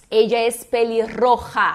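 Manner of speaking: "pelirroja" slowly, rolled RR then throaty J; trilled R plus J. Shown as a demonstration. Teacher showing two hard sounds together, slow trill and throaty J. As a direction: roll then rasp in "pelirroja", carefully. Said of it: "junta um R forte com um J".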